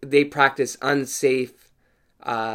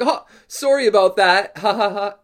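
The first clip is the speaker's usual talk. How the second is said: loud, high mock apology with a laugh; 8 semitones higher, 7 dB louder than usual. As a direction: imitate a careless giggling dentist. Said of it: "Are you motherfucking laughing at that".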